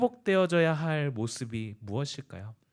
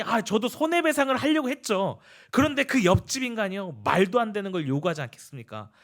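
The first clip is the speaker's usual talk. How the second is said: fuming; 3 semitones higher than usual. Retold or imitated. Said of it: "막 씩씩거리면서".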